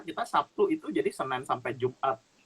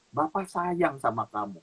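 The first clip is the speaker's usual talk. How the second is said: gentle reassurance; 4 semitones lower than usual. Retold or imitated. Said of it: "dia cuma bilang".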